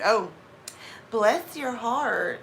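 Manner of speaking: slow, sarcastic Southern blessing; with attitude. Shown as a demonstration. Blessing that becomes an insult, with attitude. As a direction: draw it out as a veiled insult. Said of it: "getting that attitude".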